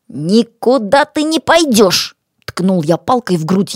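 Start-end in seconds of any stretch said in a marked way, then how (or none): 0.1-2.2 slow, higher-pitched firm order; stern refusal. Acted. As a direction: block their escape with finality. Detains the man, threatening.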